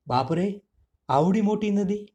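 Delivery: high, wide-eyed cry at the huge river; amazed gasp. Acted. Little mouse Chatpat gasping at the river, amazed. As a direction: gasp as if the stream were an ocean.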